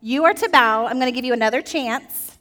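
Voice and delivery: lightly voiced king sounding like a scolding mom; a hint of a mother giving a warning; half-hearted stern parent. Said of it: "Does that sound kinda like a mom".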